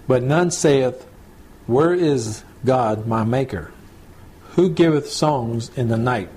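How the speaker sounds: slow, measured Bible reading; measured reading aloud of old scripture. Acted. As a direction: read the verses deliberately, pausing between phrases.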